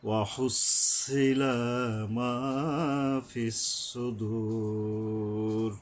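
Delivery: হুসিলা with a hissing throat ha; breathy ha. Shown as a demonstration. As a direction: let হুসিলা rush out of the throat, slow. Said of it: "গলাটা কিছুটা শো শো শব্দ হবে".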